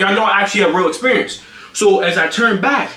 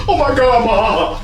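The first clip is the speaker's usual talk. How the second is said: mock panic; 5 semitones higher, slower than usual. Imitates brother fleeing in panic.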